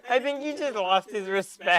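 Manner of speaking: giggling through the words; laughing. Real, not acted. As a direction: laugh while teasing. Laughing while speaking.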